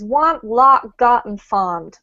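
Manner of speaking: American vowels in want, lot, got, fond; US accent. Shown as a demonstration. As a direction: say these words with a US accent. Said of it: "with the U S accent".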